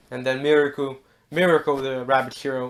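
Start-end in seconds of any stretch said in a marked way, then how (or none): none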